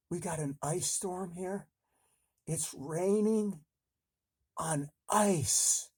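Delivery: high, hammed-up frightened whine; mock scared voice. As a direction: fake panic about the weather. Scared hiding under bed.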